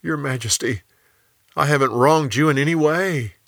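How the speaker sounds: yelling back. Acted. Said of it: "Daniel yelled back".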